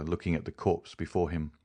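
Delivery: usual speaking voice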